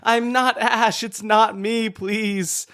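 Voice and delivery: high laughing pleading; pleading through laughter; laughing mock plea.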